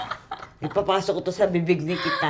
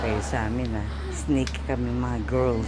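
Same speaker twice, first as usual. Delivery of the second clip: whispering; 8 semitones lower, 7 dB quieter than usual. Real, not acted. Whispering during sleeping prank.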